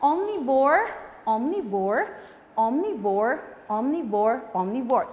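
omnivore chanted five times; drill word. Shown as a demonstration. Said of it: "can you say it five times?".

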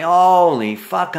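drawn out and loud; startled exclamation. Retold or imitated. Seeing Shirley's headlight, a loud drawn-out startle. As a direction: react to sudden headlights.

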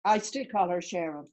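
Sharon said SHAIR-un; Sharon with AIR sound. Shown as a demonstration. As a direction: say Sharon like 'share-un'. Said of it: "is it Sharon or Sharon".

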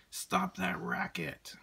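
high, slow, whispered scolding; a hint of a cross whisper; telling off the birds. A narrator's reading. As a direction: hiss it at the noisy birds. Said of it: "told the birds".

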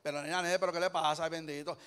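lightly imitated Puerto Rican accent. Preacher mimicking a Puerto Rican, light Puerto Rican accent. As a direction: put on a touch of Puerto Rican speech. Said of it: "si es puertorriqueño".

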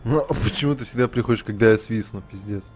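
ordinary delivery

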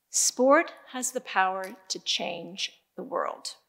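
slow, measured keynote delivery; deliberate rhetorical build to a close; solemn closing refrain. Real, not acted. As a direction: deliver each line slowly, with weight. Closing lesson, slow repeated slogan.

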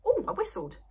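laughing in surprise; surprised laugh. Real, not acted. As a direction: caught off guard, laughing. Surprised by her own whistle.

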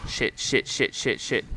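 rapid whispered panic; whispered curses. Real, not acted. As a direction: hiss under breath in tension. Tense moment in game.

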